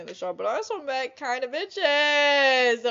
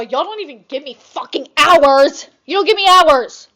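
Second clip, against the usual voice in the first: retold rant; 3 semitones higher, 13 dB louder than usual. Retold outburst at job.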